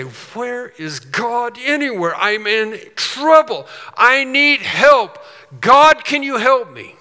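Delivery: rising to a loud, high, slow cry for help; a believer crying out in trouble; preacher voicing a troubled believer crying to God, building loud; desperate plea.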